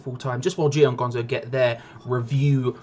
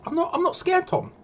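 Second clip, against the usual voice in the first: mock defiance. Insists to co-host defiantly.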